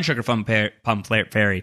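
tripping over "Sugar Plum Fa-, Plum Fla-, Fairy" mid-count; tongue-twister stumble. Retold or imitated. Reading a listener's counting method, tongue tied. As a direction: fumble the phrase before landing "Fairy". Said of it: "There's a tongue twister".

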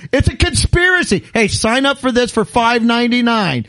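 rising into a lively rant; mock ranting. Real, not acted. Ranting to friends, mock outraged. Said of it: "good rant".

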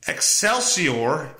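usual speaking voice

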